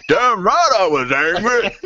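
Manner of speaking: high, slow, hammed-up mum impression; cartoon mother being indignant; South Park chef's mum. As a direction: draw it out high in a put-on accent. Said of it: "the chef's mum's going".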